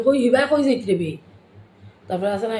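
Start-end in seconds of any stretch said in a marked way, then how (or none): 0.1-1.1 Sylheti call. Shown as a demonstration. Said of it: "এটা হলো".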